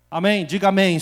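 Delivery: loud preacher's call for amen. Acted. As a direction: rouse the congregation. Preacher calling congregation to respond.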